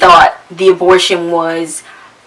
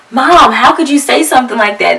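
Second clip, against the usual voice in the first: put-on hurt kids; 5 semitones higher than usual. Kids reacting to harsh words.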